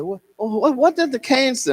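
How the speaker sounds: put-on high, eager little boy voice; curious child pressing; boy begging to hear the cane's story.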